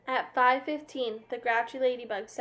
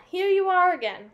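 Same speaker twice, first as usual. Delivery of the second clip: friendly ladybug voice; 7 semitones higher, 8 dB louder than usual. A narrator's reading. Friendly ladybug welcomes back.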